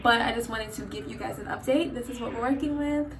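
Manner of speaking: talking funny with new veneers; words slurred round fresh veneers; groggy from anesthesia. Real, not acted. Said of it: "I know I'm talking really funny".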